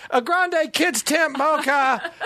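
slow, high, laughing order; embarrassed order. Retold or imitated. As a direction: sheepishly say the order. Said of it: "I'm like".

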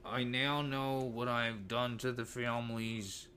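a hint of a cold killer's apology; softly voiced killer's confession; Dahmer impression. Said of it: "let me try to do his voice".

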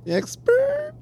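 high squeaky teasing echo; mocking echo. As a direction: squeak the word out to tease. Teasing echo of caller's boast.

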